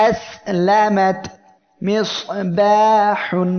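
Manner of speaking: মিস and মিসবাহুন very slow, the s a long whistle; whistling sibilance. Shown as a demonstration. Teacher demonstrating whistling letters, slow and hissing. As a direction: draw out each s like a sparrow's chirp. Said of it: "এই যে আওয়াজ হচ্ছে ... সফির".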